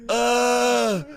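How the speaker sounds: loud pained groan; nose on fire. Real, not acted. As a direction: cry out with a burning nose. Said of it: "my nose".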